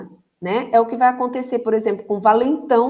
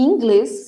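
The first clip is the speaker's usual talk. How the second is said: inglês with glês stressed, louder; stress on last syllable; 2 semitones higher, 5 dB louder than usual. Shown as a demonstration. Teacher showing the tonic syllable, inglês louder on glês. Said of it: "sendo que a sílaba tônica está no glês".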